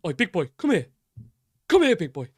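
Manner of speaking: mock Ramsay bark; Gordon Ramsay impression. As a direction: call him over like a raging TV chef. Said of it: "your Gordon Ramsay impression".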